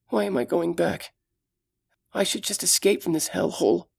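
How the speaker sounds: put-on gentle, caring young elf; young elf woman. Solana talks to herself.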